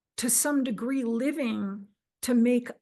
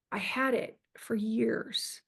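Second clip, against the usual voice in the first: whispered aside; 5 dB quieter, slower than usual. Real, not acted. Aside about the childhood book.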